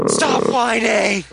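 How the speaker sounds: drawn-out slow "Stop whining!" with a little extra push; mock scolding. Shown as a demonstration. Redoing the line as a teasing, slow scold.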